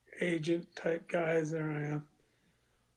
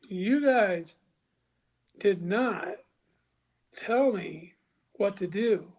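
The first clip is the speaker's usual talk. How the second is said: indignant raised voice; 3 semitones higher, 5 dB louder than usual. Retold or imitated. Heated retold argument with office.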